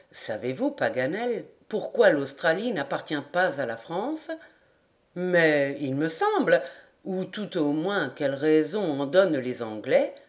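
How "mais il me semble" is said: plain reading voice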